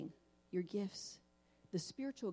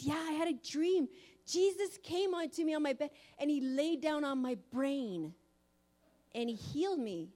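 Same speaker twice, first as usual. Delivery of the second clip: put-on higher, louder little girl voice; a child eagerly telling her dream; excited little girl; 5 semitones higher, 5 dB louder than usual. Daughter telling mom about Jesus healing her, lightly voiced child.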